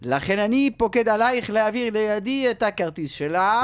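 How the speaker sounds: put-on Hebrew with a heavy French accent; a Frenchman giving orders in Hebrew. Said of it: "יש לך רק מבטא צרפתי".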